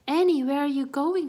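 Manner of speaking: loud high calling out. Acted. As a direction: call to a fleeing friend. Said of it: "called Melissa".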